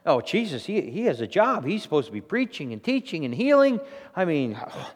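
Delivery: imitating protective disciples scolding people; mock indignant rebuke. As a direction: object on Jesus' behalf, building to a loud "how dare they". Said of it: "The disciples are rebuking the people".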